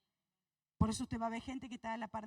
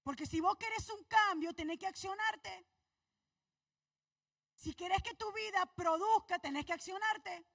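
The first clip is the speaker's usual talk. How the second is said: higher, louder preacher's exhortation; fiery preaching; 3 semitones higher, 3 dB louder than usual. Acted. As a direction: drive the congregation to act. Preaching at full force.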